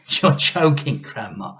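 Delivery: put-on a small boy protesting; whiny boy. A narrator's reading.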